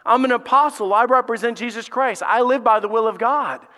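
loud, high proclaiming as Paul; voicing Paul. Paul declaring his calling to the church, loud and high. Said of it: "Paul starts saying".

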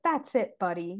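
lightly hammed-up kiddish retort; overplayed childlike Paige. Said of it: "overplaying Paige's childlikeness".

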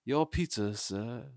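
lightly put-on British butler accent; Alfred-like British accent. British delivery guy handing over pizza, mock butler accent. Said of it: "like, Cadbury accent, like Alfred and shit".

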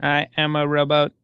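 robot voice. Acted. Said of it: "He's got a speech impediment".

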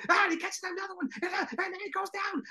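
high, over-the-top announcer; commentator voice. Retold or imitated. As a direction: mimic a rambling play-by-play man. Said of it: "you hear Lampley still going".

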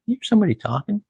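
deadpan snub in a put-on singer's voice; imitating a singer. The singer ignoring the speaker, mock deadpan. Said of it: "Bob would turn to me and goes".

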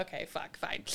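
breathy unvoiced "okay, fine"; whispered resignation. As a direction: grumble it under breath. Muttered resignation.

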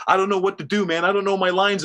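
jittery, worried stage fright; nervous. Retold or imitated. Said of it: "he's pacing nervously, and he's like".

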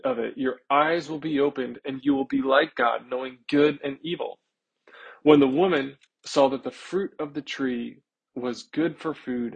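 measured, steady Bible reading; scripture reading. Acted. Reads scripture aloud.

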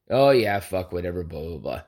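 imitating his buddy shrugging him off; dismissive brush-off. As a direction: wave it away like it doesn't matter. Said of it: "he does this thing every time".

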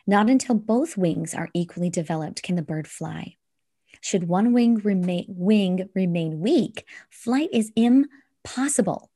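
measured recitation with deliberate pauses; solemn verse reading; poem reading. Acted. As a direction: read it out phrase by phrase, weighting key words. Reads a poem to close.

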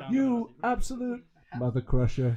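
high, slow hammed-up dub line; lightly hammed TV dub voice; mock TV overdub. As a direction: send up a cleaned-up movie insult. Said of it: "overdubbed the swear words".

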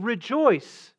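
"Rejoice" lifted high and ringing; joyful call. Acted. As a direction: announce it like good news. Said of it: "Gabriel is saying".

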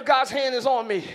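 loud, firm call to the neighbor; loud sermon line; preached declaration. Shown as a demonstration. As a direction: declare it to the congregation. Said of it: "Tell your neighbor".

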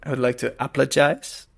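overly solemn, low apology; mock formal apology. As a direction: apologize with fake sincerity. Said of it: "colgo l'occasione per apologize".

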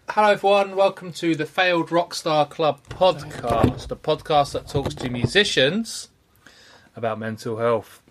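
podcast intro. Acted. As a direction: welcome listeners like a radio host.

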